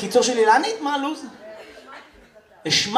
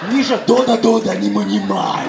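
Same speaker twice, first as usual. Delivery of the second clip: lightly voiced stern Russian mother; a hint of a strict Russian mom calling her kid; Russian mom scolding. Russian mother calling Misha at the playground, mild stern scolding. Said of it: "אמא רוסייה".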